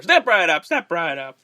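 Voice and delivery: lightly voiced carnival barker; a hint of a barker calling the crowd. Masked hero drawing a crowd in the alley, light barker patter. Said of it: "he's a carnival barker".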